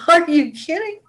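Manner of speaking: high incredulous are you kidding; dumbfounded. Retold or imitated. To herself about the rude customer, high and incredulous. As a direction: sound floored by the rudeness. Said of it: "Sometimes I just get dumbfounded".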